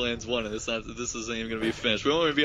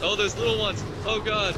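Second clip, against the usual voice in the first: surprised; 9 semitones higher than usual. Real, not acted. Surprised by creatures.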